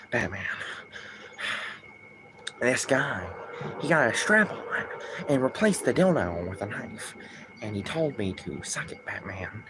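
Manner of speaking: lightly voiced Joker, hushed and sly. Streamer acting out a Joker fan-fic to chat, sly Joker voice. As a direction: purr it like a creepy clown, dropping softly on each Batman. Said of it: "in the Joker voice".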